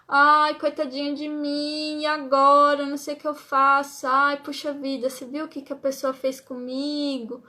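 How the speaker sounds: mock moaning over one's own misfortune; whiny victim. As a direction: play the poor-me victim, lightly. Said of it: "floral de vítima".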